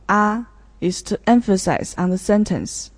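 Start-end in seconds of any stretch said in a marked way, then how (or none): 0.1-0.4 "ah" held on a level first tone. Shown as a demonstration. Student repeating the first tone, level "ah". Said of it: "So the first tone".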